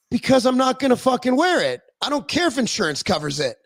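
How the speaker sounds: retold indignant protest; indignant refusal. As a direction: argue back at them, fed up. Retells arguing over thumb brace.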